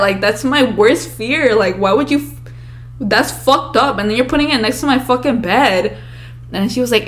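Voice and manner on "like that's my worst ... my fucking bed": retold yelling. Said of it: "I remember yelling at her".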